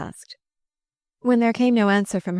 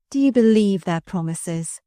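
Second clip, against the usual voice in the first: derisive. Acted. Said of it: "she asked derisively".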